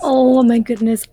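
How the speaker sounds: words catching in a tight throat. Real, not acted. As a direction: voice about to break, throat catching. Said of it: "my throat keeps catching on me".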